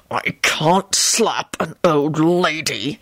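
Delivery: slow, tightly restrained reply; contained exasperation, words held back; through gritted teeth. A narrator's reading. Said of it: "he replied through gritted teeth".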